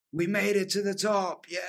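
high, gleeful laughing cheer. Retold or imitated. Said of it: "he starts laughing his head off, going".

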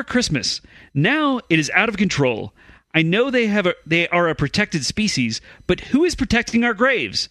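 put-on British news read; British accent. Podcaster reading a badger story as English cousin, British accent. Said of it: "get my cousin from England".

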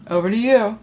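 lightly mocked anchor handoff; mock newscaster. Kid handing over after the report, mock newscaster. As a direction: hand off like a news anchor. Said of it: "hunting kids that talk like that".

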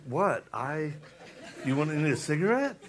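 laughing mock scolding of his wife; teasing wife, laughing. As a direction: scold her jokingly through laughter. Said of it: "I was like".

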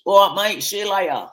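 high-pitched Mockney yell to mates; mock Mockney accent. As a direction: call out in an exaggerated Mockney accent. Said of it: "Mockney accent".

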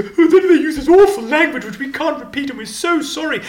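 very high, scandalised radio apology; mock-horrified broadcaster. Radio presenters apologising for awful language, mock horrified and high. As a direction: squeal the apology in hammed-up horror. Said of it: "all these bits go".

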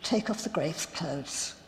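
Jesus quietly telling them to unbind Lazarus, soft. Acted. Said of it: "In a quiet voice".

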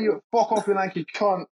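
bad Liam impression. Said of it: "I can't do his accent".

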